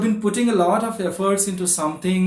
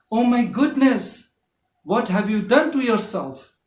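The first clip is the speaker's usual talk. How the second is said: worried aunt's surprise; 4 semitones higher than usual. Acted. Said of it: "Your aunt reacts".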